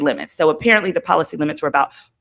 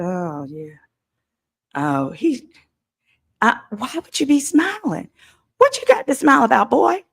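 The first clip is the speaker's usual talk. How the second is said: mocking; 6 semitones higher than usual. Real, not acted. Mocks the smiling suspect.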